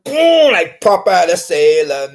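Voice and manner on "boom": loud, high punch cry; shouted boom. Retold or imitated. Telling how he punched a sparring peer, shouted. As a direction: yell the hit like landing a haymaker. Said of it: "I said".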